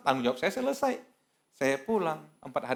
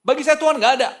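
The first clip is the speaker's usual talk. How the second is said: high, loud refusal; imitating an outraged shout; retold angry yelling; 12 semitones higher, 12 dB louder than usual. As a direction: yell it like a furious young man rejecting prayer. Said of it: "Wah, mulai tertirik dia".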